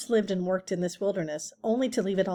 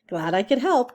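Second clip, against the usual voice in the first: calling out; 4 semitones higher, 5 dB louder than usual. Acted. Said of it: "called the skunk".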